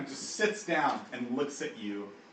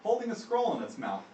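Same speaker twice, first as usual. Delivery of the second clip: dramatic announcement; 4 semitones higher, 3 dB louder than usual. A narrator's reading. End of dramatic entrance announcement.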